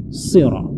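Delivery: "Sirat" with a heavy dark S; emphatic S opening "Sirat"; thick sod. Shown as a demonstration. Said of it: "sod itu mesti ditebalkan".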